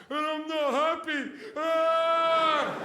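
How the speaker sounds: high, loud mock whine ending in a wail; mocking whine of a bored TV watcher; whiny spoiled viewer. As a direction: parody a pampered moaner.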